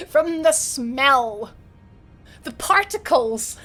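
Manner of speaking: giggling disbelief, drawn out; laughing. Real, not acted. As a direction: laugh it out slowly. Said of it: "exaggerating whiskey smell".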